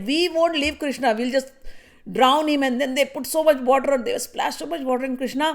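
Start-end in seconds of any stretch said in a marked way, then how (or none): 0.0-2.6 playful threat. Acted. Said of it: "they're like".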